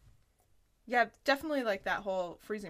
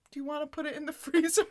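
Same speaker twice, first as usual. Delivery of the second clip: mock offer; 6 semitones higher, 6 dB louder, faster than usual. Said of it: "She's like".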